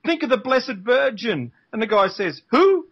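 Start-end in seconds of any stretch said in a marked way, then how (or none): 0.0-1.5 higher, slow pleading as the cop; joke-teller's desperate last appeal; mock desperate. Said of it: "Desperately, the cop says". 2.5-2.9 high, loud, mock-baffled question; hammed-up bewilderment, pitched way up; puzzled. Clueless punchline reply in joke.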